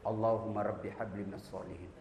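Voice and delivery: soft, low murmured prayer into an ear; whispered prayer. Retold or imitated. Uncle whispers a prayer into his nephew's ear, softly. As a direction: breathe the prayer gently into the boy's ear. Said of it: "Saya bisik telinganya".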